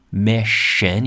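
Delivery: "mission" said as MISH-un; sh sound in mission. Shown as a demonstration. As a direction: say "mission" with a clear sh in the middle. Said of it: "como shh".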